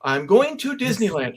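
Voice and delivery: second try of the catchphrase, slightly settled; rehearsed line. Retold or imitated. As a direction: repeat it to see if it sounds right. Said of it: "but I'm practicing my lines".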